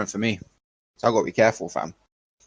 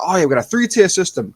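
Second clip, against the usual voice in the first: mock government voice; 8 semitones higher than usual. Officials announcing tiers, in a mocking tone. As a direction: airily mimic the smug officials. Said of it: "So they were like".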